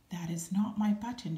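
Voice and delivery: a mild storybook shout. Acted. Toad shouting at Frog about another wrong button, mild shout. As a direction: Toad raising his voice in frustration. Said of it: "shouted Toad".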